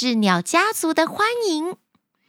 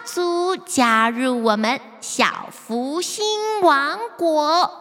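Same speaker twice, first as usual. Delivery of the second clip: slow, drawn-out announcement; radio announcer voice; slower than usual. Acted. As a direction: announce it slowly over the radio. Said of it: "泡芙妹妹的广播声".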